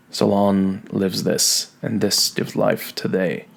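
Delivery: measured, careful sonnet recital; steady poetry reading voice; poem reading. Acted. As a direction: read it as a poem, line by line. Teacher reads sonnet aloud.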